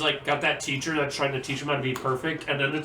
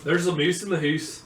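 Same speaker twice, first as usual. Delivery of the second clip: Scottish phrase; 2 semitones higher than usual. Shown as a demonstration. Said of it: "favorite Scottish phrases".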